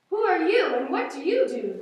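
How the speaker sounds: loud, rough roaring question; mock lion roar. Lions confronting the cow with a loud mock roar. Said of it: "The lions roared".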